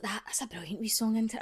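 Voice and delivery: hushed, breathy imitation of stepdad; quoting the stepdad in a hushed voice; whispered stepdad quote.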